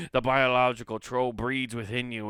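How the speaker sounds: loud, hammed-up Scottish voice; comic Scottish storyteller; mock Scottish accent. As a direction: announce the troll like a stage Scot. Scottish troll voice put on again.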